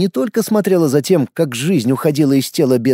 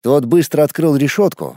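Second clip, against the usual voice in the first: usual speaking voice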